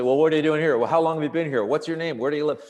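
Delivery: lightly voiced interrogating cop; cop firing questions. Cop questioning patient on the gurney, lightly imitated interrogation. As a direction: fire off questions one after another. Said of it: "firing them at me".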